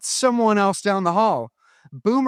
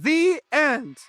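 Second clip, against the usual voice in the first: called out cue; 4 semitones higher than usual. Shown as a demonstration. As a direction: call out the end so the class can clap. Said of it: "Let's try it".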